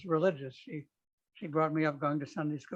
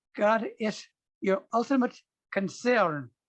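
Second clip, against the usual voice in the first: put-on very heavy German accent, raised and high; 5 semitones higher, 6 dB louder than usual. Retelling a conversation, quoting a man's answer in a thick german accent. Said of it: "in a very thick German accent".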